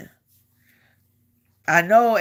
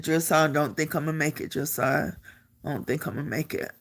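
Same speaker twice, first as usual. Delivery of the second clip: worn-out reply; 3 semitones lower, 7 dB quieter, faster than usual. Retold or imitated. Exhausted reply to drill sergeant.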